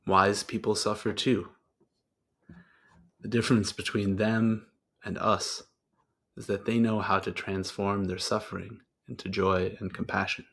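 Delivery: measured, contemplative reading with long pauses; meditative quote reading. Acted. Host closes the session with a teacher's quote, meditative reading. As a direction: let each phrase settle before the next.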